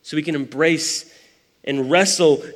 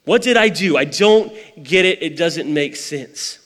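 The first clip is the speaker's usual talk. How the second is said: anguished prophet; 3 semitones higher than usual. Retold or imitated. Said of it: "every crazy thought's running through Habakkuk's mind".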